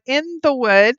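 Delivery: "the" in "In the Wood" stressed, rising. Shown as a demonstration. Repeating the brand name correctly, stress on "the". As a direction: land on "the" with a lift. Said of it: "not on the wood".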